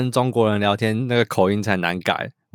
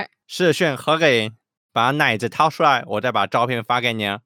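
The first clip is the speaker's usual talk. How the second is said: Beijing accent. Shown as a demonstration. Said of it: "那咱们用北京腔".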